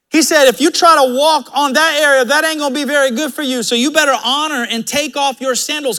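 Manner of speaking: forceful pulpit delivery; full-force preaching. Acted. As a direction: drive it home to the congregation.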